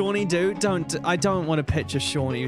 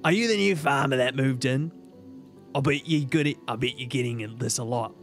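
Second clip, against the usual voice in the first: put-on low, raspy old woman voice; old hag; 4 semitones lower than usual. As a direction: rasp it like a tired old hag. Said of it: "How do I do my Pam voice?".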